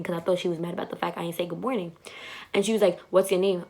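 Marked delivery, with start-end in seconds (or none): 3.1-3.6 attitude. Retold or imitated. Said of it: "she said it with a whole attitude".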